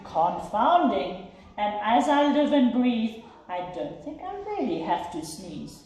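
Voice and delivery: delighted elephant, lightly voiced; amazed elephant.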